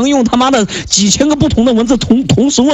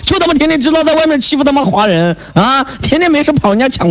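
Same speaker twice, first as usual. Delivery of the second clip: angry rant; 6 semitones higher than usual. Real, not acted. Heated rant at foreign chat partner.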